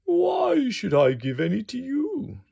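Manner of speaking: high indignant question; indignant wolf. Acted. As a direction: challenge them indignantly. Wolf refusing greedy neighbours.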